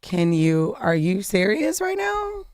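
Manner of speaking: can't believe what he just saw, drawn out; stunned disbelief. Real, not acted. Reacting to a shocking comment.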